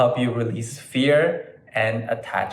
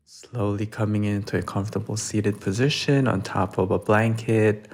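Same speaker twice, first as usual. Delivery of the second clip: calm, measured yoga guidance; guided meditation; 3 semitones lower than usual. Real, not acted. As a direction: ease listeners into practice, lower than chatty greeting.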